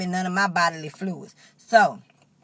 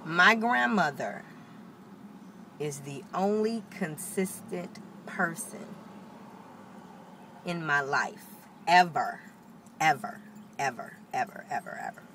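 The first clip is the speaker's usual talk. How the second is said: slow and softer, voice almost breaking; close to tears; 5 dB quieter than usual. Real, not acted. Granddaughter on the edge of crying about her grandma, slow and soft. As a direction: hold back tears as you say it. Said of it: "now I'm finna start crying".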